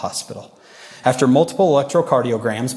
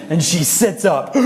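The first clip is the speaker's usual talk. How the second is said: dramatic build; 6 semitones higher, 3 dB louder than usual. Acted. Retelling a dramatic moment.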